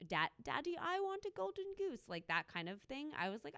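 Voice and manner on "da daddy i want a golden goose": put-on high, whiny little-girl plea; bratty baby voice. Bratty sub begging her sugar daddy, high whiny plea. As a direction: beg daddy like a spoiled brat. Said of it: "being a brat".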